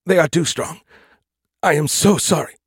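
high, strained and anguished; strangled voice. Acted. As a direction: choke out a pained apology. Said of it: "he said in a strangled voice".

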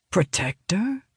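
"Protector?" as a soft puzzled question rising at the end; wondering. Acted. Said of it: "Sylvania wonders".

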